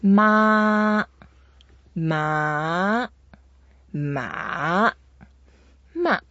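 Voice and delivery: long "Ma"s: flat, rising, dipping, then short falling; four tones, separated. Shown as a demonstration. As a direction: show each "Ma" on its own, ending with a quick drop. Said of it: "just flat".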